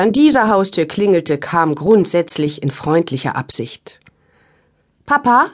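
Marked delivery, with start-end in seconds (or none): 5.1-5.5 high little voice. Acted. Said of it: "mit hohem Stimmchen".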